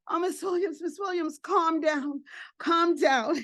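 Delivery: high, pressing plea to settle down; urgent calming. Retold or imitated. Caseworker to crying Miss Williams, urgent calming.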